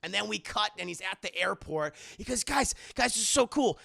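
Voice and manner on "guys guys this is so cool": higher, louder gushing; mock excited teen. Imitating Peter filming at the airport, higher giddy voice. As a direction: gush like a giddy kid.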